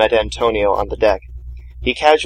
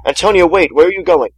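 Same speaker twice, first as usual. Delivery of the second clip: calling after him, higher and louder, pleading; 7 semitones higher, 4 dB louder than usual. A narrator's reading. Priest pleading with Antonio to let him come. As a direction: beg him to wait and take you along. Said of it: "Martin pleaded".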